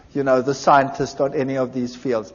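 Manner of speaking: ordinary talk, nothing marked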